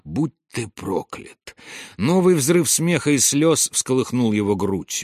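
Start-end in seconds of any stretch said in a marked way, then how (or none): 0.0-1.6 slow, softer, hushed curse; barely voiced, drawn-out curse; whispered curse. A narrator's reading. Карнак curses his father alone under the stones, whispered. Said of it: "прошептал Карнак".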